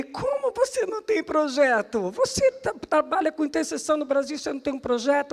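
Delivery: high-pitched imitated disbelief; incredulous questioning. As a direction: act out their disbelief, voice jumping up. Líderes cobram, incrédulos, encenado. (cobrança incrédula imitada, em tom agudo)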